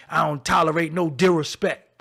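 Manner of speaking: disrespect mouthed as "dih-rih-spect"; mock the slurred disrespect with scorn; mocking mispronunciation. Mimicking kids copying a rapper, mock mispronounced disrespect. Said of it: "He can't say disrespect".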